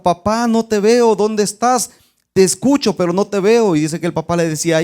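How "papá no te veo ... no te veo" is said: put-on child shouting. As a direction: call out lost in the smoke. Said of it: "el niño gritaba".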